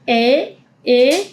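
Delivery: "E" said with an open A mouth; ä drill; ä sound. Shown as a demonstration. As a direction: open the jaw for "E" as German ä. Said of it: "boca de A, y vas a decir E".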